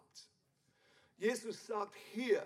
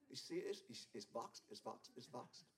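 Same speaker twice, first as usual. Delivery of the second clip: much softer, hushed self-admiration; mock vain mirror gaze; 10 semitones lower, 14 dB quieter than usual. A vain young man marvelling at his growing muscles, hushed and mocking. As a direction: coo at your own muscles in the mirror.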